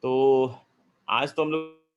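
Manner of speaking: choppy, lagging audio cutting out; breaking up voice. Real, not acted. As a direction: voice breaking up on a bad line. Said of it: "sir, आपकी आवाज़ अटक रही है".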